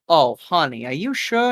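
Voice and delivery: doubtful waitress. Acted. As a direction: question a customer gently, pitch swooping up. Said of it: "She's like".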